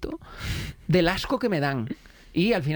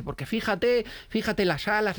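higher-pitched imitation of an enthusiast; fascinated biologist; 4 semitones higher, slower than usual. Biologist admiring cockroach wings, imitated eager fascination. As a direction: point out the marvel eagerly, pitched up. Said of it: "le flipaban las cucarachas como a ti".

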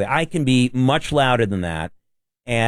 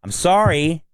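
mock crazy-guy yell; 6 semitones higher than usual. Host recalls yelling at a menacing subway rider, mock crazy-guy yell. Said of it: "I usually yell at them".

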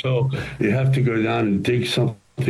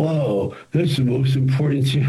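higher, amazed producers; mock amazement; 6 semitones higher than usual. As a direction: play the stunned producer, pitched up. Producers amazed after the screening.

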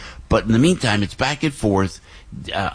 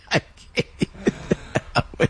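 slow, voiceless giggle through the words; can't hold it together; breathless laugh; 8 semitones higher, 4 dB quieter, much slower than usual. Real, not acted. Host breaking up while reading the ad, laughing. Cracking up mid-ad.

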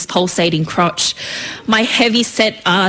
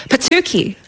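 short high-pitched outburst; involuntary exclamation; 7 semitones higher than usual. A narrator's reading. Lahi shoved into the bins, exclaiming involuntarily. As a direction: blurt it out higher, as if it escaped you. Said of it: "Lahi exclaimed involuntarily".

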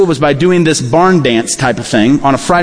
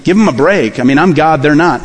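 hypothetical Jesus; 4 semitones lower than usual. Pretend. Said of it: "You would think he would say".

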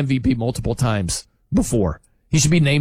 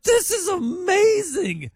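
raised pitch, slow, awestruck gushing; mock-dazzled fan raving; 8 semitones higher than usual. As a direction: play the amazed fan losing his mind. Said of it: "They'd be like".

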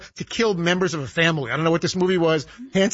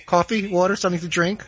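lightly imitated attendant offering snacks down the aisle; flight attendant singsong. Passenger imitating a flight attendant's mock singsong. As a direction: chant the snack list like a tired attendant. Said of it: "repeat five thousand times".

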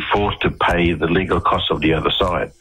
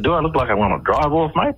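indignant tone; 9 semitones higher than usual. Retold or imitated. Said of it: "as soon as you heard my tone of voice".

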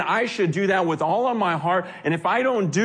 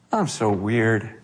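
laughing at yourself; 10 semitones lower, slower than usual. Retold or imitated. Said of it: "you look at yourself and you just go".

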